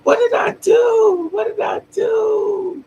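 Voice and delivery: very high, drawn-out imitated wail; slow, piercing mock scream of despair; screaming, crying mother. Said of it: "His mother started screaming and crying".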